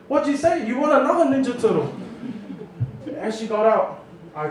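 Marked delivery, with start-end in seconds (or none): 0.1-1.9 higher, fast threat; angry mother warning her son; mum threatening. Retold or imitated. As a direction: fire it back, daring him.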